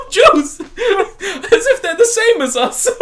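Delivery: high, laughing mock voice; sneering parody of a comedian's story; mocking impression. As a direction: ham it up like a smug comedian. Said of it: "like a prick".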